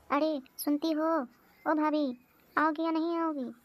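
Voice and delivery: calling out. Acted. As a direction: call out for the bhabhis, impatient.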